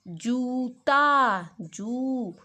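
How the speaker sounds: जूता very slowly with जू long; जूता, जू stretched and stressed. Shown as a demonstration. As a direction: drag out the ऊ in जूता. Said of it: "ज पे थोड़ा जोर डाला".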